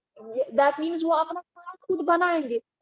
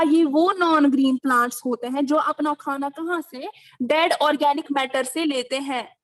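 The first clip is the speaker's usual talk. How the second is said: louder, clearer for a bad line; louder repeat. Real, not acted. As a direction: say it again louder so they hear. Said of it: "आपकी आवाज cut cut के आ रही है".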